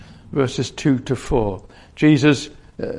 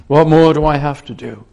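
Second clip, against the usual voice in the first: louder, exasperated question; frustrated; 6 dB louder than usual. Acted. Jesus leaving the Pharisees, frustrated and louder. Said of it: "born out of frustration".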